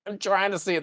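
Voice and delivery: high, strained effort; mock straining. Spock straining to see in a pretend mind meld, mock straining. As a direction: squeeze it out as if straining. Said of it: "Oh, you look constipated".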